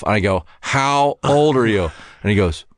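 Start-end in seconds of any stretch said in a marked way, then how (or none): 0.6-1.9 slow insistent repeat. Retold or imitated. Comic asking the question again.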